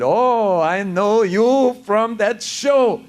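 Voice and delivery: put-on high, slow cabbie accent, excited; lightly voiced New York cab driver recognizing him; imitating the cab driver. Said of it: "the guy looked in the mirror and said".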